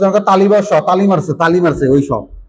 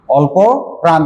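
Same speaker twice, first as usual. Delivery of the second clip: each word spaced out for writing; spaced out, dictation pace; slow dictation. Shown as a demonstration. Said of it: "লিখে নাও অল্প প্রাণ".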